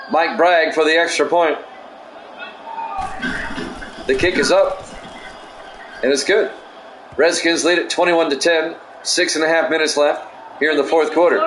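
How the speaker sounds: steady sportscaster call of each play. Acted. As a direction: call the drive like a broadcaster. Play-by-play of game.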